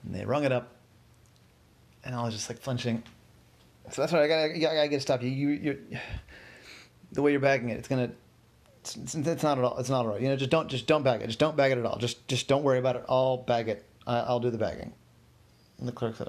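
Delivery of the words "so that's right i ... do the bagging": snappish. Acted. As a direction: cut in on the clerk, almost yelling. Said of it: "I almost yelled at her".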